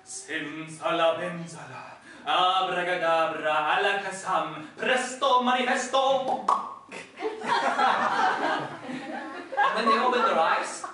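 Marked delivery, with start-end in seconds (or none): 0.1-6.4 magic incantation. Acted. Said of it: "he said the magic words". 6.5-9.6 laughing. Real, not acted. Narrator laughs after spell.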